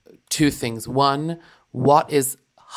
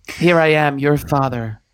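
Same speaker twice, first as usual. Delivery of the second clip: lightly voiced stern father, slow and grand; a hint of an aristocratic father; Count Von Trapp; slower than usual. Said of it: "You sounded just like my papa".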